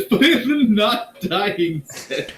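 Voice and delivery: high, slow words squeezed out through laughter; can't stop laughing while quoting. Real, not acted. Player repeats the line to the table, laughing.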